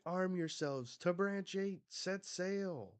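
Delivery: rally the crew like a giant captain; booming giant voice. Retold or imitated. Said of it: "The giants are like".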